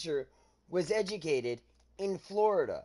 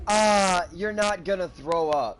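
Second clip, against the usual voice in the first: dismissive instructor; 5 dB louder, slower than usual. Retold or imitated. Retells dismissive JROTC teacher.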